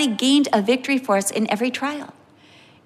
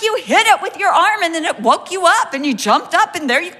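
laughing explanation; 6 semitones higher than usual. Retold or imitated. Wife laughingly telling husband he was the intruder. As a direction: explain it while cracking up. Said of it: "I'm like".

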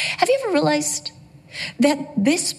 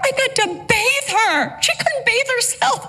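tearful; 8 semitones higher than usual. Real, not acted. Recalling caring for her sick daughter.

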